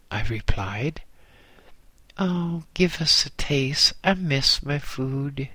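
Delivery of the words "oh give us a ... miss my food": wistful. Acted. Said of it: "he said wistfully".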